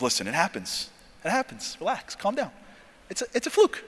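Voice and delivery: soft, calming commander; soothing reassurance. Retold or imitated. Commander to trainee after failing, softly reassuring. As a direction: talk him down quietly.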